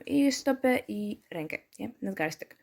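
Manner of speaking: usual speaking voice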